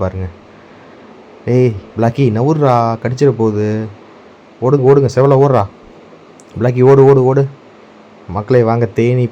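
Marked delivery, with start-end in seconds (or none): 1.5-7.4 shouting run. Real, not acted. Yelling at Blacky and Sevalai to run from the bees, loud alarmed shout. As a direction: yell at the dogs to flee.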